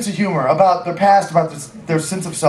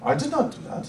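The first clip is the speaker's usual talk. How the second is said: put-on soft, higher protest in German accent; 6 semitones higher, 10 dB quieter, faster than usual. German friend denies having an accent, soft German accent. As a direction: imitate a German quietly denying it. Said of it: "the German accent".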